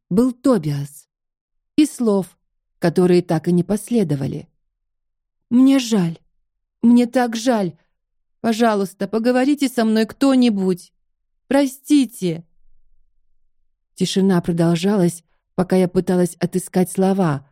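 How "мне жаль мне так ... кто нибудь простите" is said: tearful pleading. Acted. Begging silent phone line.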